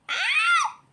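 sudden very high, loud "Aa!"; a real jolt of surprise, loud and high; startled cry. Real, not acted. Sees something outside, startled.

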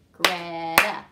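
loud "Greta" in two beats; clapped again. Shown as a demonstration. Teacher repeating a name for pupils to count. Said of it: "How many claps did you hear".

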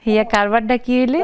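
put-on teasing in a Barisal accent; Barisal dialect. Host teasing the guest in a Barisal accent. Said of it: "মনু, তুমি তো দেখি পারো না".

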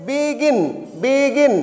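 "বিগিন" as two beats, বি and গিন; two clear syllables. Shown as a demonstration. Teacher showing it is disyllabic, "বিগিন" said as বি-গিন. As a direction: lengthen বি slightly, then গিন in "বিগিন". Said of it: "এটা disyllabic".

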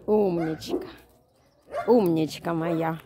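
loud, slow doting praise; squeaky praising a dog. Real, not acted. Praising dog after it came.

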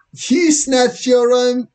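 put-on very high, slow outraged girl; gasping disbelief in a squeaky-high voice; shocked Lisa. Girl accusing boy of robbing his mother, high and shocked.

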